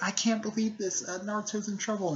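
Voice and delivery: high-pitched mock distress; upset, pitched well up; about to cry. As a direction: imitate a girl close to tears. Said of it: "she's gonna start crying".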